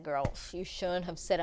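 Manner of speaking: hushed whisper to a friend; whispered advice. Retold or imitated. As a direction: lean in and whisper it.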